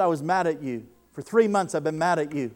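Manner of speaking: man admitting anger to the preacher; retold anger. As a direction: press hard on mad. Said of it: "And he said".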